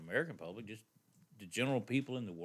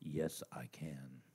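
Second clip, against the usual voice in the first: slow, eerie whisper; creepy whisper; 8 semitones lower, 8 dB quieter, much slower than usual. Pretend. Echoing his cohost to spook the listeners, a slow creepy whisper. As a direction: breathe it slowly like a ghost on the mic. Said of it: "That was scary".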